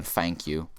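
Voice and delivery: "thank you" said as "fank you". Retold or imitated. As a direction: thank with an F in place of th. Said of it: "They say it as an F".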